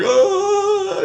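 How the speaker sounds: high-pitched drawn-out wail of fright; mock terrified "oooh", held high; panicked wail. Buddy retold fleeing in panic.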